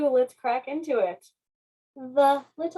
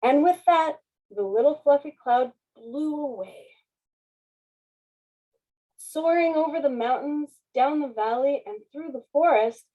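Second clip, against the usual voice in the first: put-on lively read-aloud for children; story narration. A narrator's reading. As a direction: read it like a bedtime picture book. Reading picture book aloud.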